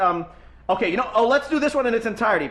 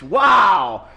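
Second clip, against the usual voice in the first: excited shout; 6 dB louder than usual. Real, not acted. Host excited by band name.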